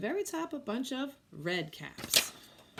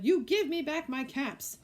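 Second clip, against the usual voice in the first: higher, louder scold; scolding demand; 6 semitones higher, 5 dB louder than usual. Acted. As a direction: demand the caps back. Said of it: "he said, shaking a finger at them".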